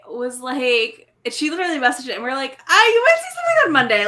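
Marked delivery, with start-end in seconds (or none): 2.7-4.1 high, bright teasing sing-song; teasing quote. Retold or imitated. Friend teasing about a Monday surprise, high playful voice. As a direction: tease them with a secret.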